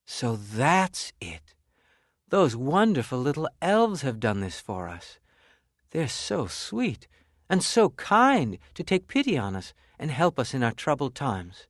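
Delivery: tender gratitude. Acted. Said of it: "they turned to one another and they said".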